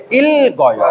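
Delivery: ইল গয় with l, then g carried over; ইল গয় joined as il-goyo; both consonants sounded. Shown as a demonstration. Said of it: "কিন্তু এখন উচ্চারণ হবে".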